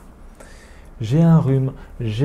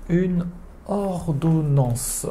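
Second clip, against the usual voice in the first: "Une ordonnance" repeated slowly; slow repetition; 3 semitones higher, much slower than usual. Shown as a demonstration. A teacher repeats "Une ordonnance" for students. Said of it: "Après".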